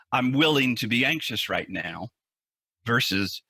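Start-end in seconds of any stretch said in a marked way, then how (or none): 0.1-2.1 merely willing. Shown as a demonstration. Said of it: "you hear that subtle difference".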